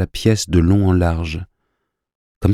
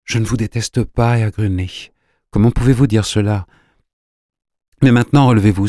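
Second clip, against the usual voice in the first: higher-pitched, emotional reassurance; consoling, then more insistent; deeply moved; 4 semitones higher than usual. A narrator's reading. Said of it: "très émue".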